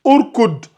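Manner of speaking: "urkud" lu avec un ou initial; lecture avec ou initial. Shown as a demonstration. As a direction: prononce "urkud" en commençant par le son ou. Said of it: "on va lire ici". ("urkud" articulé à l'arabe, ou au début)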